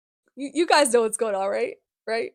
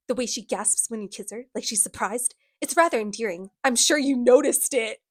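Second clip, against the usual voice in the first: lightly acted creepy villain; a hint of taunting, building at the end; Sebastian. Villain goads a brother about his sister, light taunt. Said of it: "this is the Sebastian voice".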